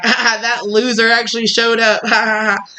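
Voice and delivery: imitated jeering laugh through the words; hammed-up, mocking ha-ha delivery; mocking laughter. Host supposedly laughing at the guest, imitated mockery. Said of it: "it's not like they're laughing".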